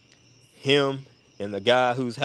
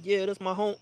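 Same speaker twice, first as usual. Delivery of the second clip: high mock Blake voice; 10 semitones higher, 4 dB quieter than usual. Blake line repeated.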